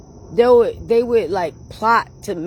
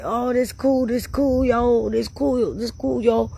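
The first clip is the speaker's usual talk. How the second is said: high, giddy this cool yo; bouncing with excitement before the concert; retold excitement; 5 semitones higher than usual. Heading to her first concert, giddy and high. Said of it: "And I'm just like".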